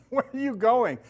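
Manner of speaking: mock bewildered question; puzzled. Pastor mimicking himself when misunderstood, mock puzzled.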